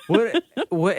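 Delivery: high-pitched baffled question; retold disbelief. Told to get off the bed, baffled disbelief. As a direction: act out being thrown by the request.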